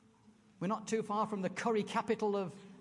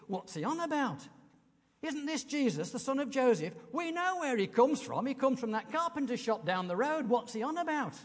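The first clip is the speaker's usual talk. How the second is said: grumbling crowd; 4 semitones higher than usual. Retold or imitated. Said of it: "you can understand why people reacted".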